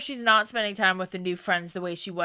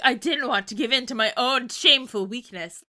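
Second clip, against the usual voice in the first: mock emo angst; 4 semitones higher, 4 dB louder than usual. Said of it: "she says this in the most emo way possible".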